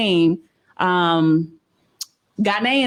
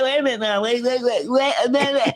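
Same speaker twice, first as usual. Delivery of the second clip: laughing. Retold or imitated. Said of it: "and I was like".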